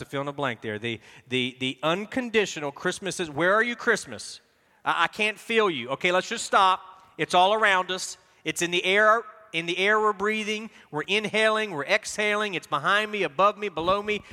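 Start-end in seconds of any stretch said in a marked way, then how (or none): 3.3-14.2 higher, lively calling out; mock looking all around; playful search. Pastor playfully searching for Christmas in the room, excited.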